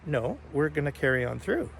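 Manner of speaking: soft, even retelling of a calm refusal; unruffled and softly spoken. Retold or imitated. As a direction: quietly hold your ground. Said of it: "I calmly looked at him".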